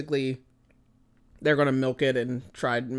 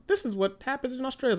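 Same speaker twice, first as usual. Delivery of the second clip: mock Australians; 10 semitones higher, faster than usual. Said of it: "They're like".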